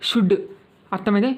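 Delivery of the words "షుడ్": "షుడ్" with a silent L; short "షుడ్", vowel straight into D; correct pronunciation. Shown as a demonstration. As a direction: say "షుడ్" without the L. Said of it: "షుడ్ అని పలకాలన్నమాట".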